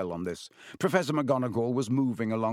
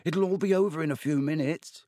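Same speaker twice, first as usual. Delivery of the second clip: higher, nervous urging; 6 semitones higher than usual. A narrator's reading. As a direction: push a friend to get it over with. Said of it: "Neville urged".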